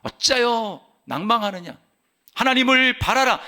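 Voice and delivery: slow rebuke rising to a firm call; 입으로 선포. Shown as a demonstration. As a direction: exhort your own soul, building in pitch. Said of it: "입으로 선포합니다". (자신에게 점점 높여 선포하듯)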